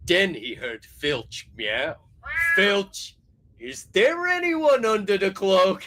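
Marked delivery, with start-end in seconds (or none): 2.6-5.9 laughing. Acted. Janitor voice, laughing.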